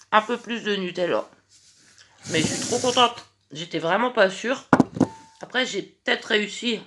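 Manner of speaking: talking through a mouthful; chewing while talking; mouth full. Real, not acted. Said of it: "j'ai la bouche pleine".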